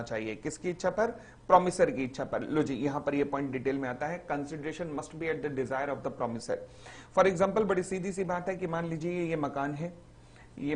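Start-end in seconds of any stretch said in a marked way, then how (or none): 4.3-6.6 very slow, every word spaced out; slow dictation. Shown as a demonstration. Teacher reading the definition aloud for notes, very slowly.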